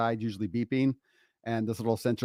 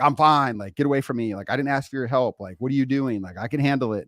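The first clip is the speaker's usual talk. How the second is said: defensive snap, loud at the start, then easing; mock yell; 3 dB louder than usual. Husband brushing off his concerned wife, mildly yelling. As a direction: act out a mildly irritated brush-off. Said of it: "I normally would just scream".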